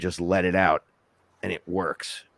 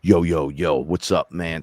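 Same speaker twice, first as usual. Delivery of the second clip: getting up on the listener, louder attack; projected greeting; 4 dB louder than usual. Shown as a demonstration. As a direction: punch the opening out to be heard, then ease. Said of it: "I have to get up on you".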